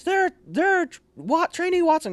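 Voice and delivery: high-pitched, halting mock call; stumbling holler, acted out; sergeant calling out. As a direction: imitate a sergeant summoning a trainee. First sergeant calls out the trainee.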